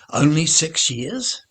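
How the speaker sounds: put-on a kid amazed it's only six years; surprised. Kid surprised by the old man's answer, surprised.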